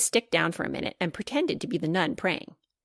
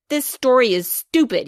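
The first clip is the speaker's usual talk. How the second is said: scornful; 5 semitones higher, 5 dB louder than usual. Acted. Sam storms off scornfully.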